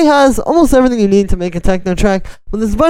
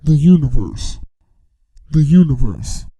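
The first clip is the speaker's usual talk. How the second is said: formant shifted voice; 7 semitones lower than usual. Shown as a demonstration. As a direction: lower formants, warped vocal. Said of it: "start putting the Foreman shifter on".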